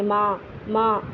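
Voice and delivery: ماں with noon ghunna only in the nose; nasal maa. Shown as a demonstration. Teacher showing noon ghunna with Urdu word. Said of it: "جیسے ماں بولتے ہیں".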